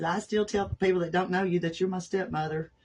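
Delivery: imitating stepdaughter. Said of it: "she says".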